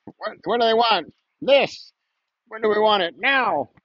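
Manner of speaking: high, urgent protest chant; urgent activist. Pretend. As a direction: lead the crowd chant. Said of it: "I sound like a, a protester".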